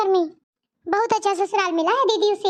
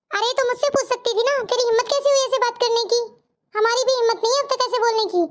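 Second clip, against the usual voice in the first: higher-pitched indignant reproach, not shouted; mild scolding; 3 semitones higher than usual. Acted. Elder sister rebukes younger one for talking back, scolding. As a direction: reprimand her for daring to speak up. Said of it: "बस करो, अब मत डांटो".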